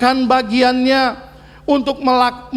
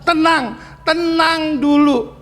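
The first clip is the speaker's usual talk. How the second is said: calming parent; 4 semitones higher, slower than usual. Retold or imitated. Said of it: "Dan kita berkata".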